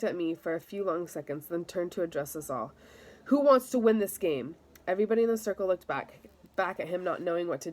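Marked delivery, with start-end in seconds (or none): 3.2-4.6 higher and louder, rousing the team; rallying call. Acted. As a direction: call out to the whole circle. Captain rallies the team.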